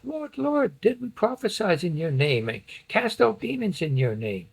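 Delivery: high-pitched acted plea; emotional pleading. Rejected followers appealing to the Lord, pleading. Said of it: "that's a pleading or that's an emotional".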